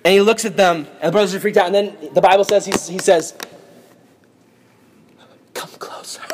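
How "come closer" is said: hushed, voiceless beckoning; creepy whisper. Acted. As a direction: whisper to draw frightened listeners in. Weeping Joseph beckons brothers near.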